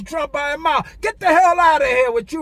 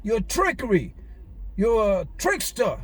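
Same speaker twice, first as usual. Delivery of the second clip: scornful Jesus quote. Retold or imitated. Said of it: "he called him a fox".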